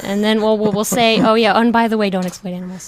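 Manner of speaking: mocking, sarcastic; sneering mock enthusiasm; sarcastic mock cheer. Mocking PETA's voice.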